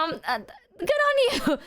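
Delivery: words broken by real laughter; laughing. Real, not acted. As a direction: laugh through it. Laughing while praising.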